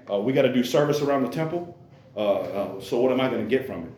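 mock grumble about doing temple service; lightly mocking lazy priest; lazy grumbling. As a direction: whine like a worker who only wants pay. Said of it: "That was their attitude".

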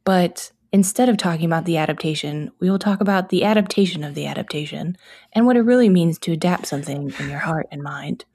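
deadpan public radio host, hammed-up; earnest NPR voice, playfully overdone; mock serious radio. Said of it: "Stop it. No jokes".

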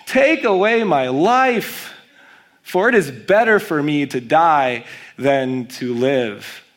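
mock whiny teen plea, slow start; whiny teenager. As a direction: whine it like a sulking adolescent. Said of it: "now we gotta get really whiny".

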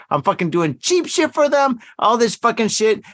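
worked-up griping, not shouted; retold pissed-off rant. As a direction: replay the fed-up rant, pitch climbing. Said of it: "so fucking pissed off".

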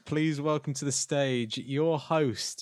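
slow showbiz host intro; announcer voice. Pretend. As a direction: announce him grandly.

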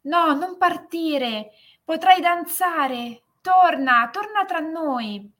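high, slow, pleading calls; calling after her. A narrator's reading. Family calling after the girl leaving for the stars, high and slow. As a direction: beg her to come back, drawn out. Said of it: "iniziarono a chiamarla".

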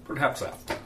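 put-on Russian accent. Candidate plotting with his brother-in-law, in a Russian accent. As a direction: plot coolly in a thick Russian accent. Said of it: "I find it deeply satisfying to do the Russian accent".

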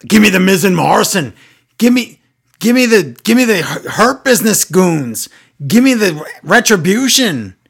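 exaggerated, insistent imitation; mock demanding. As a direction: hammer out each demand, mimicking a pushy wrestler. Mocking a wrestler's weekly demands.

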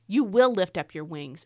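"will" picked out firmly; stress on WILL. Shown as a demonstration. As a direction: press on "will" as a sure promise. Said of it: "all the times in this verse where God says will".

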